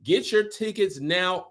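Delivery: mock London accent for the promo; playful fake British promo voice. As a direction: hype the show in a put-on British voice. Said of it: "or I will continue my British accent".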